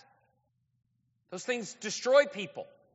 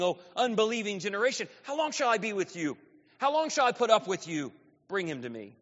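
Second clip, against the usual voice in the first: brisker rebuke reread; 2 semitones higher than usual. Acted. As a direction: run through the rebuke again, faster. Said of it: "read that once more".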